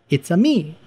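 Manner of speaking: lightly imitated bad Italian accent; singsong mock-Italian catchphrase; Mario. Apologizing by repeating the bad attempt, mock Italian accent. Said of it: "That was terrible".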